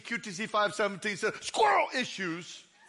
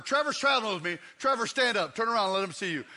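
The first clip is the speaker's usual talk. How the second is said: ordinary delivery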